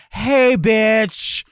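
high, shouted over the music; obnoxious pushy yelling in someone's face; loud club acquaintance. Retold or imitated. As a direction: holler it, dragging the words out. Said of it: "somebody comes and grabs you by the arm".

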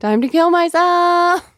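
high, loud, hammed-up lament; exaggerated high-pitched anguish; mock despairing wail. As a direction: wail it melodramatically, stretching the end. Acting Corky's melodramatic despair.

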